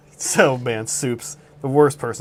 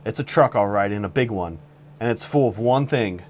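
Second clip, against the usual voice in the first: suspenseful campfire-story voice; dramatic storytelling; 2 semitones lower than usual. Acted. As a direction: paint a tense scene like a thriller. Dramatic story narration of roast.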